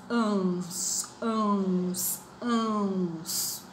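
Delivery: ans said three times, nasal ending held; repeating ans. Shown as a demonstration. Teacher drilling the sound ans for the class. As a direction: chant ans ans ans slowly. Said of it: "Fazem o plural do ans".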